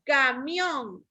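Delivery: Camión with MIÓN stressed and held; stress on last syllable. Shown as a demonstration. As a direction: lean on the end of Camión. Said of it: "lleva el acento en la última".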